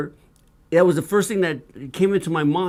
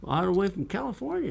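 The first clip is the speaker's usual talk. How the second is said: put-on matching Southern accent; 3 semitones higher than usual. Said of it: "just like him".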